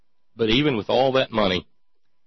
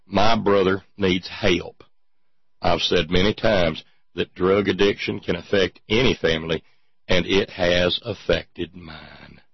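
mock statement reading. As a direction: read the statement out with heavy, measured weight. Reads Gert's statement mockingly.

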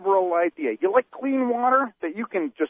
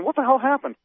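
mock outrage. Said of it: "the real conservatives are saying".

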